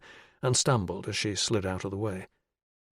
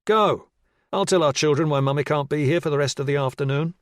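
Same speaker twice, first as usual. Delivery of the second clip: bitter retort; 5 semitones higher, 5 dB louder than usual. Acted. Husband's bitter parting shot.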